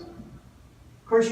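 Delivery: ordinary delivery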